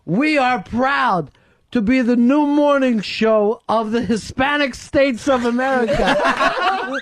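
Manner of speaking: imitated speech-maker, drawing out the key words; retold yell. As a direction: announce it grandly to a crowd. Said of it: "he yells out".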